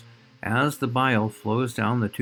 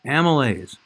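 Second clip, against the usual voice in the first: louder, bright reveal of the answer; eager quiz answer; 3 semitones higher, 6 dB louder than usual. Acted. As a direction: announce it like the big reveal. Answers own quiz question.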